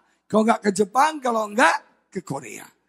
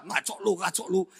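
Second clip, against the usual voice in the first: quick, softer dismissive reply; istri tidak percaya; 7 dB quieter than usual. Retold or imitated. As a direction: imitate a wife brushing it off. Wife disbelieves the news. (menepis tidak percaya, suara lebih pelan)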